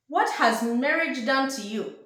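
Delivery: put-on a playful dig in a Nigerian accent; mock Nigerian accent. Siblings teasing her about cooking, in a mock Nigerian accent. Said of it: "They did not say it in a Nigerian accent".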